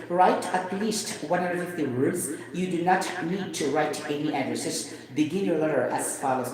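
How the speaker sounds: American English accent, write said with clear r. Shown as a demonstration. To the viewers, reading the test prompt in American English. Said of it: "if I will say it in American English".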